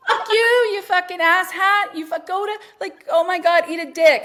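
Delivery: high, loud road-rage tirade; off-the-rails yelling. Retold or imitated. Two friends in a car re-enacting yelling at drivers, off the rails. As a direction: hurl insults in acted fury. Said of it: "off the rails yelling".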